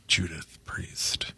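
Judith Priest with a lisp, th for s. Shown as a demonstration. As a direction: say Priest lisped as Priezth. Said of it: "Sorry, I have a lisp".

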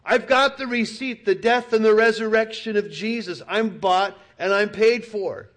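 high, loud triumphant cry; howling declaration. Shown as a demonstration. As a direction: yell it out in victory. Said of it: "you should howl. You should yell".

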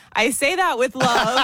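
said through a laugh. Retold or imitated. Host quoting her own disclaimer, laughing. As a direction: laugh while quoting yourself. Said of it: "You cut out the parts where I say".

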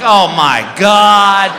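loud, drawn-out comic dismay; horrified reaction. Retold or imitated. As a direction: stretch it out slowly, aghast. Horrified reaction to Paco's nudity.

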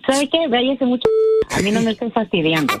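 annoyed. Real, not acted. Wife angry at prank caller.

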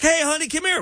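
flirty come-here call. Retold or imitated. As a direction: playfully beckon the wife over. Husband home, calling wife over.

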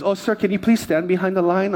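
a hint of a polite airline agent; airline lady. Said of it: "and the lady goes".

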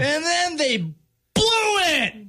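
exasperated. Real, not acted. Host rants at team's collapse.

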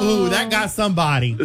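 lightly mimicked moviegoers reacting; a mild imitation of the amused crowd; onlookers' reaction. Moviegoers react to the screamer, lightly imitated amusement. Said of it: "They were like".

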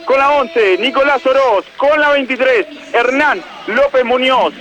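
measured stadium lineup read; number then name, each one presented. Acted. Reporter reading Argentinos' eleven to the broadcast, announcer read.

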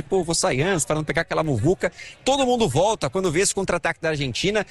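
ordinary talk

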